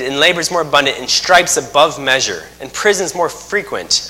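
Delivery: slow, measured Bible reading; scripture reading. Acted. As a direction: read the verses with weight, line by line. Reads scripture aloud slowly.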